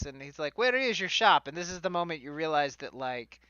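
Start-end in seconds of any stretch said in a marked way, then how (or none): 0.6-1.5 hammed-up fantasy Italian accent; bad stage Italian for a fantasy character; fake Italian accent. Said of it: "bad, fake fantasy Italian accent".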